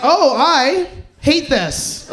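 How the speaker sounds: drawn out, very slow, through a laugh; mock-pained complaint, very slow; slow groan of disgust. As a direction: drag it out like you can't stand it. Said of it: "I was like".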